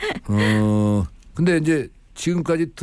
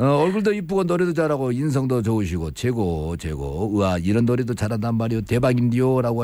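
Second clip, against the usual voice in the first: ordinary talk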